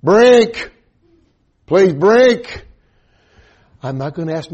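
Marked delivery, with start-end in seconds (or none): 0.0-2.7 put-on high, loud toddler's begging wail; child's pleading cry. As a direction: beg for a drink like a desperate little boy.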